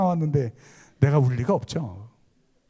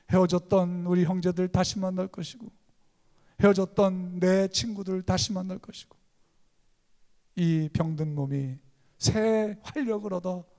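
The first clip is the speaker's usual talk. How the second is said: usual speaking voice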